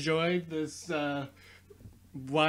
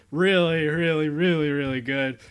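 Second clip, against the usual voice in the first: loud, insistent really really; loud bragging; 7 dB louder than usual. Real, not acted. Gamer boasting to viewers, loud and proud. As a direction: pump up your own skill.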